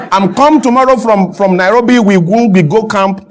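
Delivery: imitating a Dutch coach's broken English; Clemens Westhoff. Coach telling media his travel plans, lightly imitated broken English. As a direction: lightly mimic stumbling, repetitive foreigner English. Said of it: "That's how he talks".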